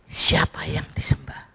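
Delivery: whispered, soft question; hushed question. Acted. Preacher quietly challenging the congregation, whispered question.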